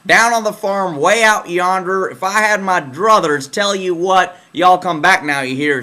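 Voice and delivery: Southern drawl. Retold or imitated. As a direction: stretch it into a down-on-the-farm Southern twang. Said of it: "like, Southern drawl".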